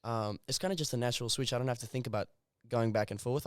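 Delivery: natural South African English; South African accent. Shown as a demonstration. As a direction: talk as to your South African parents. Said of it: "if I'm speaking English to my parents".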